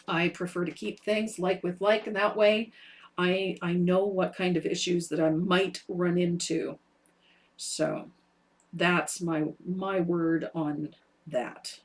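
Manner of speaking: far from mic. Real, not acted. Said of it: "Sound is like you're across the room".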